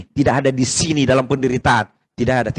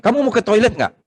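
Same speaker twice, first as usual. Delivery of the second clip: higher-pitched, playful asking voice; imitated question to child; 8 semitones higher than usual. Adult asks a child about the toilet, high-pitched imitation. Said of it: "saya dengar seorang anak kecil itu".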